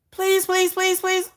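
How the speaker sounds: high put-on pleading; mock begging. Mocking the fan begging the actor, high pleading.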